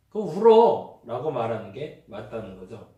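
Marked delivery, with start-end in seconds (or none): 0.1-1.0 urging someone to let the tears come, raised and high; a big-hearted push to cry; loud encouraging cry it out. Retold or imitated. Preacher voicing a friend who urges the upset one to cry.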